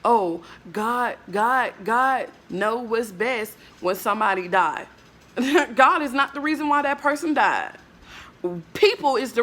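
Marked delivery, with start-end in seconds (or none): 0.0-4.9 mock pious mourner. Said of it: "people talking about".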